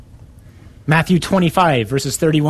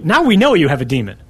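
quick, emphatic mock accusation; retold accusation; 4 dB louder, faster than usual. The Jews answer Jesus, retold as a quick accusation. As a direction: pounce on it as proof, retelling.

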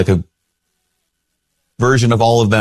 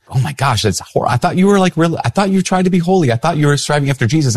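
high, scandalized, disappointed voice; mock horrified church lady; shocked church lady; 8 semitones higher than usual. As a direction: act out her dismay at his sins.

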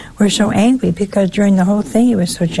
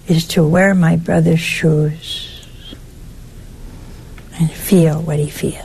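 hushed whisper, slowed down; 4 semitones lower than usual. Acted. Preacher confiding empathy's meaning to the congregation, whispering. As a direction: lean in and whisper it slowly.

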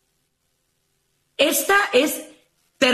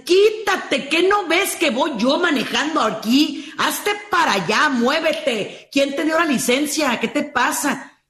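mild mock rant at a driver; mock road rage yell; 4 semitones higher than usual. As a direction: play at yelling at another driver, half-hearted. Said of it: "a ese que le gritaste".

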